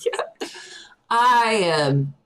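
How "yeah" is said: breathy whispered yeah after a laugh; just breathe the word out. Real, not acted.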